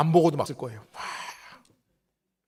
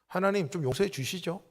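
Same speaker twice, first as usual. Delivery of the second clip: offhand, softer throwaway prayer; half-hearted prayer; 6 dB quieter than usual. Retold or imitated. A careless believer praying for the people, half-hearted and offhand. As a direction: toss off the prayer without meaning it. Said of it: "건성으로 할 수밖에 없어요".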